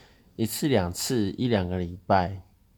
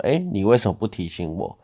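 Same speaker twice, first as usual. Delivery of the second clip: retold reproach; 5 dB louder than usual. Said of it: "越南人就说".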